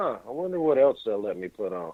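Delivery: casual, offhand, idle nonchalance as if nothing matters. Imitating Don Cheadle wondering what else he can put on Showtime: nonchalant Don Cheadle impression. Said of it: "Just sitting there going".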